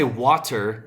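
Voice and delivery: WATER with a hard, separate T; over-pronounce the T in water; enunciated T. Shown as a demonstration. Mocking careful speakers, water with a hard T. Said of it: "I don't say".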